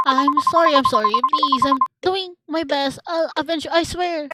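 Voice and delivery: high, loud, desperate begging; frantic apology. Acted. Begging the accusing lover for forgiveness, frantic apology. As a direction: plead loudly as if swearing an oath.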